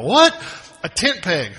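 imitating a baffled listener; puzzled surprise. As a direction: blurt out in disbelief. Congregation's puzzled reaction.

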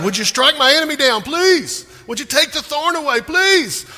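loud, high-pitched desperate plea; acted frantic begging to God. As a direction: beg at full voice, wailing each "please". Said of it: "We beg God".

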